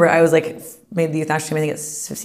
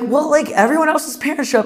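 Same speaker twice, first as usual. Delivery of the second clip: pitched way up, matter-of-fact whine; higher kid voice; 10 semitones higher, 4 dB louder than usual. Retold or imitated. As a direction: explain it like an earnest kid. Daughter explaining to parents.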